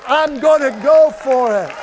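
loud, punchy congregational rallying cry; loud preacher's declaration, falling firmly at the end; rallying shout. Shown as a demonstration. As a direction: shout it out for the crowd to follow. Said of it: "Come on, shout".

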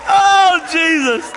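slow, loud laughing oh Jesus; laughing cry. Real, not acted. Preacher cracking up at his Coca-Cola story, laughing loud. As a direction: call out to Jesus while laughing.

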